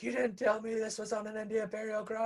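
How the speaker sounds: high-pitched mock complaint to the realtor; lightly acted indignation, pitched well up; Homer on the phone. Homer ringing the realtor about the burial ground, mock indignant. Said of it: "Homer calls up".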